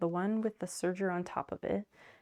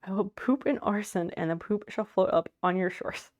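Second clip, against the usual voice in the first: whiny argue voice; 4 dB louder than usual. Acted. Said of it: "I'm just gonna make, like, whiny argue voices".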